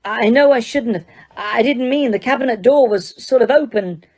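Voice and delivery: hurried guilty excuse; flustered apology. Acted. Harry apologizing to the professor, flustered. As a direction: caught out, stammering. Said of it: "Harry gasped".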